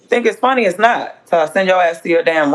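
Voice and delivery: annoyed mom scolding. Real, not acted. Scolding her kid.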